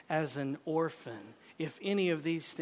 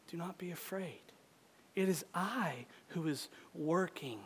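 low, soft words with long pauses; hushed, solemn reassurance; 4 semitones lower, 5 dB quieter than usual. Acted. Preacher giving Jesus's words to the hardened heart, hushed reassurance. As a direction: lower the voice and let each phrase settle.

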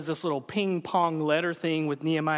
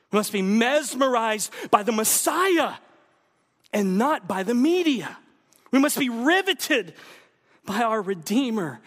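loud, higher, ringing preaching; preaching at full force; 5 semitones higher, 5 dB louder than usual. Real, not acted. Pastor urging his congregation, loud and higher.

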